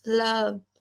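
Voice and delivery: soft, stretched लब; slow, drawn-out lub. Shown as a demonstration. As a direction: say लब long and gently. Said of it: "ऐसे".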